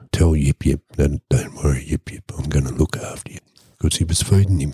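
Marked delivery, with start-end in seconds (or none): 1.3-3.4 gentle reassurance. Retold or imitated. Storyteller to caged panda while plotting escape, soft reassurance. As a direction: quietly soothe a caged animal.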